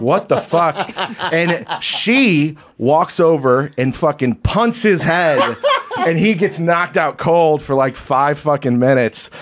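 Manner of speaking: can't stop laughing at the memory; laugh-filled retelling, slowed down. Real, not acted. Laughing while telling punchline.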